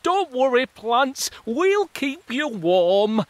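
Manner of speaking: high, slow, comforting; reassuring fungi. Acted. Fungi reassuring the plants, slow and kind. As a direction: soothe the plants gently.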